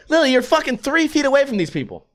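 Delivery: high-pitched, running straight through; retold exasperated plea. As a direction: reason with her in mild exasperation. Retold scolding of loud girlfriend.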